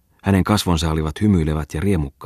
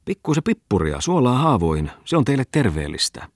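mock the two friends with glee; gloating schoolmaster; 3 semitones higher than usual. Bungman hails the crowd.

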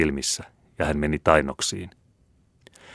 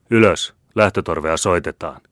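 karkea huuto; 5 dB louder than usual. Acted. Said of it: "huusivat alasaksan murteella".

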